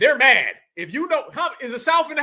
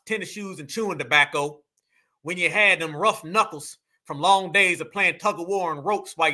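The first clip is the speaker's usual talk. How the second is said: lampoon a proud Southern orator in a lower voice; mock Southern supremacist; 6 semitones lower than usual. Reactor parodying the Southern man's poem, mock Southern supremacist. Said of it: "when they start talking like that".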